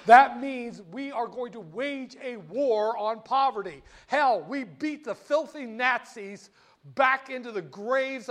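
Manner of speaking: rally the nation from the podium; rousing Kennedy speech. Retold or imitated. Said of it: "He said".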